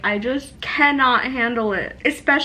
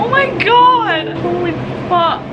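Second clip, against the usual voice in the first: overwhelmed exclamation; 4 semitones higher, 4 dB louder than usual. Real, not acted. Overwhelmed by sad book.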